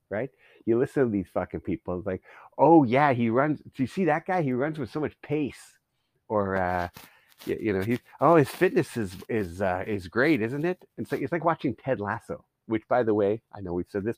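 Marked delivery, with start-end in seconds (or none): 2.6-5.8 lightly put-on English-style soccer fan, pitched up; hint of imitation English pundit, loud at first; mock soccer newbie. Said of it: "they're talking like they're from England". 8.2-10.8 hint of put-on English fan chat; mock soccer newbie. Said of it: "they're talking like they're from England".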